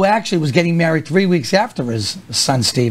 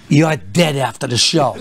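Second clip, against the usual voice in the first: laughing threat; 3 semitones lower than usual. Retold or imitated. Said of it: "he goes".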